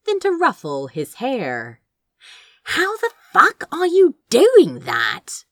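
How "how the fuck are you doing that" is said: muttered. A narrator's reading. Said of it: "Crow muttered to him out of the corner of his mouth".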